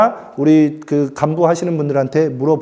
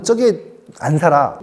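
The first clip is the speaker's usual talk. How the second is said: Jeolla dialect; 3 semitones lower, slower than usual. Retold or imitated. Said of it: "전라도 말로는".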